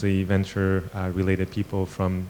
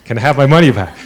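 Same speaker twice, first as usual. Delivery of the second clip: laughing through the quote; 5 semitones higher, 11 dB louder, faster than usual. Retold or imitated. Retelling investor's demand, laughing.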